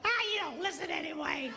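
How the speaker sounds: high, quick dismissive call; mock exasperated yell; yelling back. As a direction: toss it back across the house. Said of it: "She yells back".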